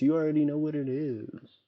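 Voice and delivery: a light touch of a cute voice on "You already know what it is". Retold or imitated. Streamer reading Tiff's chat line in a lightly cute voice. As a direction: read the chat line sweetly, just a bit. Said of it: "in a very cute voice".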